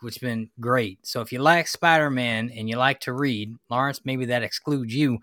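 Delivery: hammed-up Southern twang; put-on Southern accent. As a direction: carry on in a pretend Southern accent. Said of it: "giving us this Southern accent".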